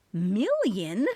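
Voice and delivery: "Million?" as a stunned rising question; shocked question. Acted. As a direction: ask "Million?" in disbelief, rising. Narrator echoes in shock.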